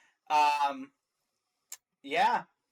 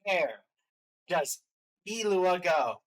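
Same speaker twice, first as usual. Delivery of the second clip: slow, dramatic ranking announcement; show announcer; 3 semitones higher, 4 dB louder, slower than usual. Pretend. Host asks co-host for the last trailer ranking, announcer style. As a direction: draw out the big question like a host.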